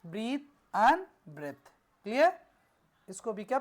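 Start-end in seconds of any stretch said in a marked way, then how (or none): 0.0-1.7 "breathe" long ee, then "breath" short e, very slow; teacher repeats "breathe and breath" very slowly for the class; careful pronunciation. Shown as a demonstration. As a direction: draw out "breathe and breath" one by one. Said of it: "इसको पढ़ते हैं".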